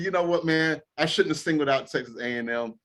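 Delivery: mock apology. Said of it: "this can easily go away by just saying".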